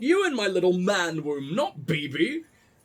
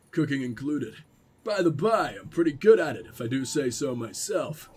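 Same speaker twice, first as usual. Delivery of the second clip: a lightly gruff, lower prepper; half-hearted gruff survivalist, chatty; 4 semitones lower than usual. Acted. Streamer reads the prepper's letter, lightly gruff. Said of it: "Do I have to do the gruff voice?".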